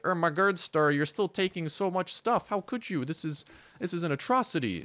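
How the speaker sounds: high-pitched parody of scandalized commenters; mock their horror in a high voice; mock outraged viewers. Imitating viewers who object to all the looting, mock outrage. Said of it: "people out there who are like".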